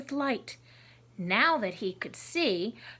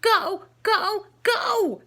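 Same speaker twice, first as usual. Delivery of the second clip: high, loud frantic scream; loud, high-pitched desperate cry to run; 8 semitones higher, 6 dB louder than usual. Acted. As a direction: scream it in a panic to flee. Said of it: "she screamed".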